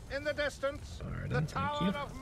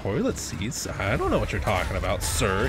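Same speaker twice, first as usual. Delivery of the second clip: mock-innocent senior, slightly lower; fake polite; 3 semitones lower than usual. Senior denying toilet seat theft to the trainer, fake polite. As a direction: play dumb with fake politeness. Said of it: "fake polite bullshit that kids do".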